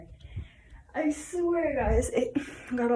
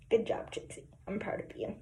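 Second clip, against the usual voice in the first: soft praise to a dog; 3 semitones lower, 7 dB quieter than usual. Real, not acted.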